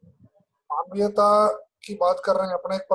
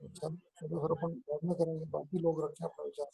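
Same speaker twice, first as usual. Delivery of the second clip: glitchy robotic call; 3 semitones lower, 11 dB quieter than usual. Real, not acted. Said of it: "आपकी आवाज ठीक से नहीं पहुंची है।".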